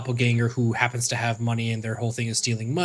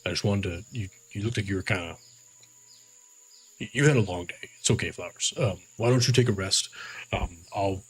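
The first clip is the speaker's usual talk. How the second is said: sheepish apology; 3 semitones lower than usual. Acted. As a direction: coax a tired friend to rest. Orc apologizing gently.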